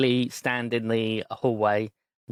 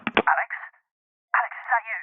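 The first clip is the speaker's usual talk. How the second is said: a father relieved but alarmed on the phone; worried father answering the phone; anxious dad; 12 semitones higher, faster than usual. Acted.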